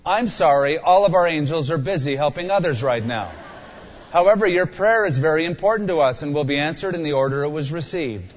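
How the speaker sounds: recorded phone menu reading. Acted. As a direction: read it like an automated hotline. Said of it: "Imagine praying but getting this".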